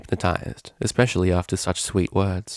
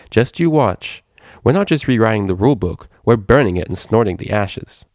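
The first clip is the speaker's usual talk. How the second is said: cocky boast; 2 semitones higher, 3 dB louder than usual. Acted. Vinyl's bold boast.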